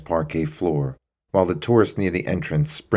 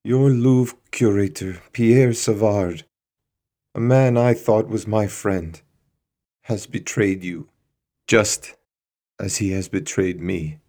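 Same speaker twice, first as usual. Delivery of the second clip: betrayed accusation; 4 semitones higher than usual. Acted. Bernard accuses curator, weeping.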